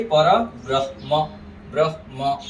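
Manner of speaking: ब्रह्म as "brah-ma", with ह before म; correct pronunciation. Shown as a demonstration. Teacher models pure pronunciation of पर ब्रह्म, careful demo. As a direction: split पर ब्रह्म as "para brah-ma". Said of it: "ये शुद्ध उच्चारण".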